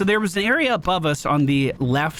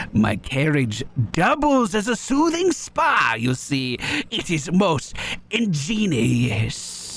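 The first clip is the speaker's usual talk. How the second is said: bad French accent; slower than usual. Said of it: "My French accent is so bad".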